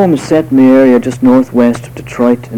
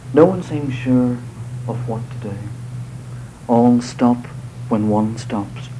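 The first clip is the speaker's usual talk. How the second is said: poetry reading. Acted. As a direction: read the verse gently, letting lines settle. Poet reads his poem aloud.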